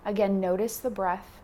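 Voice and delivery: calm instruction with long pauses between cues; guided meditation. Acted. Yoga teacher guiding beginners through posture and breath, guided meditation. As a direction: talk them through it, unhurried, leaving space.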